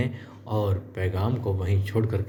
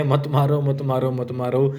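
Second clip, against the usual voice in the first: higher, louder retold begging, repeated in a run; helpless plea; 5 semitones higher, 3 dB louder than usual. Helpless Gunnu begs attackers to stop beating him, imitated pleading. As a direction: imitate a beaten man begging for mercy. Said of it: "Gunnu जी बेबस हो जाते हैं और कहते हैं".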